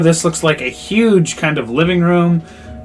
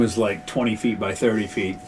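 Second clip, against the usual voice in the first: soft unvoiced whisper; 6 semitones lower, 11 dB quieter than usual. Real, not acted. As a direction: hush it like a secret. Players drop to whisper.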